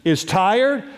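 slow, disbelieving; incredulous question. Retold or imitated. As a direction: doubt it slowly, drawn out. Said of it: "some of you are sitting there thinking".

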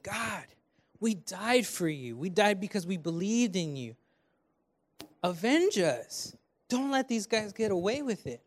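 petition God for vengeance, pitch lifting at the end; pleading martyrs. Acted. Martyrs asking God to avenge them, pleading. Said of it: "And they're asking".

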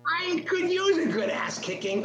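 lightly voiced Joe Pesci line, slow; Joe Pesci quote. Podcast host quoting a movie bar scene, light mock tough guy. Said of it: "scene in My Cousin Vinny".

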